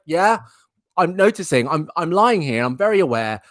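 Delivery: put-upon dog voicing a complaint; Dexter. Dog complaining to owner about no stroking, put-on pet voice. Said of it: "that's basically him right now".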